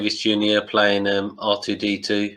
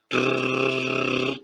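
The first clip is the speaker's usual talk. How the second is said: mock gunfire; 2 semitones higher than usual. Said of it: "Say hello to my little friend".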